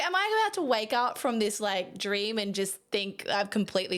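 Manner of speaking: as if waking from a dream; dreamy disbelief. Retold or imitated. Photographer in the Uber, wondering aloud in disbelief. Retold awe after shoot.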